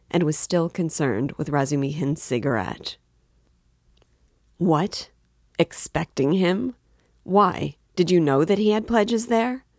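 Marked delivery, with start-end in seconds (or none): 4.6-9.6 raised, higher-pitched disbelief; astonished cry. A narrator's reading. Friend questioning the official about pledges, astonished cry. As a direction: cry out in surprise, pitch climbing. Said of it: "cried Razumihin".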